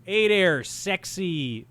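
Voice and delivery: put-on flirty failed New York accent. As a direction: try a sexy New York voice. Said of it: "I was trying to do a New York accent".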